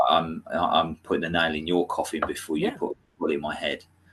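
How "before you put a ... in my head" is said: ordinary talk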